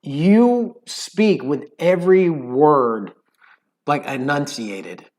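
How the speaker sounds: slow, precise London speech; London accent, every word enunciated. Shown as a demonstration. Showing the listeners London smugness, slow enunciated London accent. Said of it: "when you talk a London accent".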